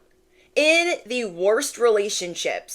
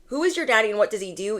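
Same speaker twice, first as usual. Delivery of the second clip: meme voice; much faster than usual. Pretend. Tarot reader to viewers, a quick meme voice. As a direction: rattle off the viral meme line. Meme voice quoting viral clip.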